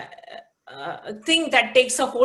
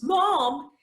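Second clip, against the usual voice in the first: annoyed mom; 5 semitones higher than usual. Retold or imitated. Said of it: "said with some annoyance".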